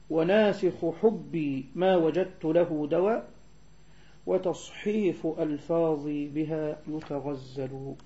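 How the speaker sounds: slow, measured verse recitation; poem recitation. Real, not acted. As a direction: read the verse out slowly and deliberately. (إلقاء بيت شعر ببطء وتأنٍّ)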